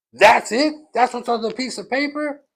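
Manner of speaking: loud, high astonished question; incredulous. Retold or imitated. Rebbe stunned by what the paper says, incredulous. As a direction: burst out in high-pitched disbelief.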